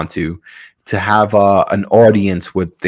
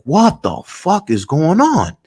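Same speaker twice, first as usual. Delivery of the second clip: high, slow incredulous question; retold bewilderment; 8 semitones higher than usual. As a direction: draw out his baffled reaction. Pilot's engine has shut off.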